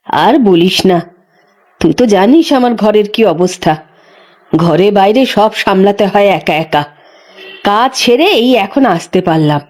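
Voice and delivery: put-on a worn-out old woman sighing over her lot; old midwife. The old midwife tells Ganga about her bedridden husband, low and weary.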